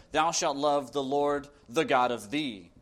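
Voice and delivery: careful, reverent reading of the commandment; interlinear reading. Acted. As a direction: weigh each word of the old wording. Reads interlinear Greek rendering.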